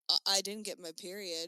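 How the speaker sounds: loud, blurted denial; flustered yell to the strangers; retold yell. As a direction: shout it out in a panic. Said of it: "All I could yell out loud was".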